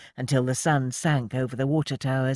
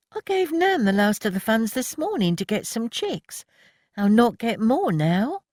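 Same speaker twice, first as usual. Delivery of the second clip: moaning; 9 semitones higher than usual. A narrator's reading. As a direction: groan it out in disgust. Voices Annie, high.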